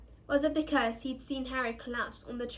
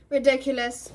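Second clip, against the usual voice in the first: almost lazily; 8 dB louder than usual. A narrator's reading. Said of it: "almost lazily".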